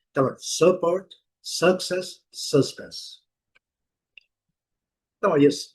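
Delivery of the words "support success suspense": "support", "success", "suspense" each with a schwa first; English pronunciation. Shown as a demonstration. Teacher recapping pronunciations for students, English schwa words. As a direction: model the three words as separate items. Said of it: "as pronúncias".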